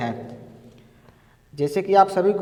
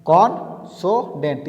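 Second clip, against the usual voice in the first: slow demo word; slower than usual. Shown as a demonstration. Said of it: "यानी कि consonant".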